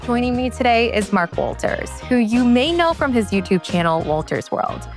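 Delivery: measured, scripted host introduction over music; podcast intro read. Acted. Host introducing today's travel guest to listeners, scripted intro read. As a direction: read it as a polished show intro.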